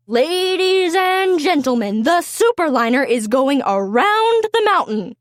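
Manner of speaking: a hint of a stretched-out announcer call; race announcer. Announcer calling the race to the crowd, lightly voiced. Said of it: "called the announcer".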